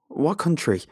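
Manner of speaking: high, loud interrogating question; sharp demand. A narrator's reading. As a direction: demand an answer forcefully. Interrogation of frightened stranger.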